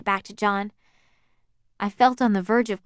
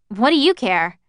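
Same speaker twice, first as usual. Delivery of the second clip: sharp, louder retort with an edge; 3 semitones higher, 6 dB louder than usual. Acted. Narrator blaming John for the wrecked party, sharp-edged retort. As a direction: snap back, blaming him. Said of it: "with an edge to my voice".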